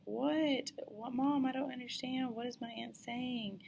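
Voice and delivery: high, loud bewildered questions; confused what. Retold or imitated. Child asking mom in alarm, loud confused questions. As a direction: raise the voice in startled confusion.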